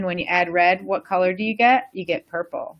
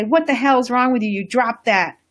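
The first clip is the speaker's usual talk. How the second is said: angry mom; 3 semitones higher than usual. Retold or imitated. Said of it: "smack the kid and say".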